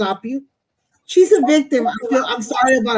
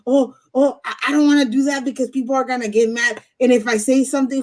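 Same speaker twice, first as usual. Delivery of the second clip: people-pleaser voice; 3 semitones higher, faster than usual. Retold or imitated. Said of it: "this pleasing attitude".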